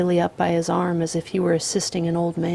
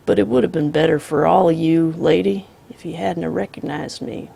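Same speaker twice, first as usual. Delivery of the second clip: calm drawling outlaw; 4 dB louder than usual. Acted. The Misfit voiced.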